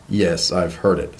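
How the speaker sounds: annoyed. Acted. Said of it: "with considerable annoyance".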